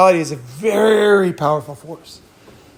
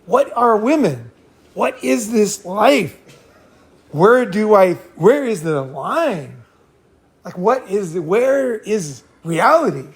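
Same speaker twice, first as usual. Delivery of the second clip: bewildered; 3 semitones higher than usual. Retold or imitated. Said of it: "I was like".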